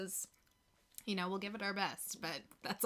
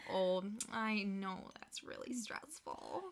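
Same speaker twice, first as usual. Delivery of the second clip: Midwestern nice; 3 dB quieter, slower than usual. Retold or imitated. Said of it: "comes out when I get irritated and I'm trying to be nice".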